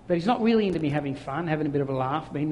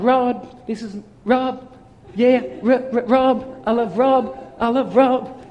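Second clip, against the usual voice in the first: higher, louder doting God cheering someone on; joyful enthusiasm; 5 semitones higher, 6 dB louder, slower than usual. Acted. God looking down on Rob, joyful enthusiasm. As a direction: stammer the name with delighted, acted excitement. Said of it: "the joy, the enthusiasm".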